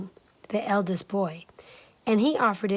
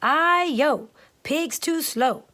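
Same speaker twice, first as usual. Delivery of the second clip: higher, louder cheeky rice cake voice; higher cheeky cry of a living rice cake; 6 semitones higher, 4 dB louder, slower than usual. Acted. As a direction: sing out like a mischievous runaway cake. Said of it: "It cried".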